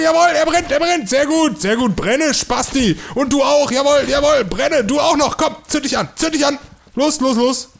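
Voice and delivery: high, gloating cheers as they burn; high-pitched gloating glee; gleeful cheering. Real, not acted. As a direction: revel in watching them burn. Cheering enemies burning.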